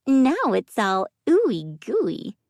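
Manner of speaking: high, slow, teasing squeak; squeaky teasing. A narrator's reading. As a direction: stretch out the teasing.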